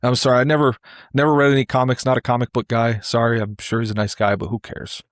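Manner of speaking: mock pompous brush-off; lightly imitated blowhard waving it away; Mike Francesa. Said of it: "And he goes".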